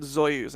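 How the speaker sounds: Soyuz begun with a buzzing Z; imitated mishearing. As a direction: say Soyuz as "Zoyuz". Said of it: "I thought you said Soyuz".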